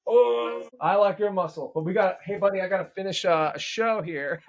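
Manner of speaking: high, delighted voice while being hugged; hugging his son. Real, not acted. Father is squeezed in a hug by his son and gushes delightedly.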